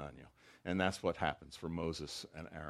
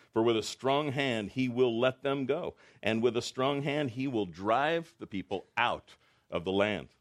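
louder, slow solemn proclamation; proclaiming God's promise; 3 semitones higher, 5 dB louder than usual. Acted. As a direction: declare it with divine authority. God's promise read aloud.

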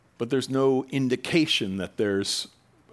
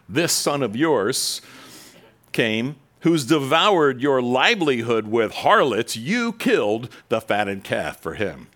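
slow, louder bitter jab; bitter accusation; 4 dB louder, slower than usual. Acted. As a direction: spit out his resentment, slowly. Angry older son accuses father.

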